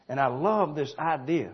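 mock enthusiasm for the idea; sarcastic. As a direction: say you love it, meaning the opposite. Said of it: "I'm being sarcastic".

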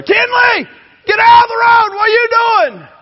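put-on high, loud frantic scream at a child; frantic yell. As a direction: scream her out of the road. Yelling at child in road.

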